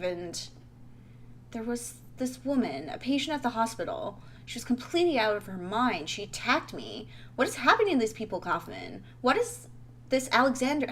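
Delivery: lightly acted, urgent report to a colleague; earnest investigator. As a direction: press your findings on him, insistently. Voices investigator in game dialogue.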